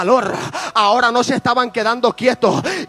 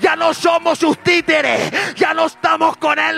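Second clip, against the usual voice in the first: furious queen; 5 semitones higher than usual. Acted. Queen Athaliah crying treason at the crowd, in an acted furious shout. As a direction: rant like a betrayed queen losing her grip. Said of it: "oh, se enojó tanto".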